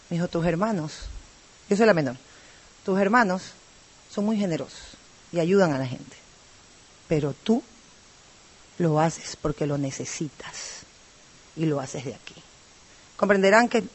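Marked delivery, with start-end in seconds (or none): 0.3-0.9 imitación suave de la voz ronca de la madre. Retold or imitated. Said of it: "con la voz ronca". 2.8-12.3 voz ronca, muy suave y lenta, como de enferma. Retold or imitated. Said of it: "con la voz ronca".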